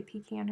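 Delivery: "pecan" said first as pee-CAN, then as puh-KAHN; two pronunciations compared. Shown as a demonstration. Wondering how Aussies say it, "pecan" in two pronunciations. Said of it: "Pecan just sounds so foreign in my mouth".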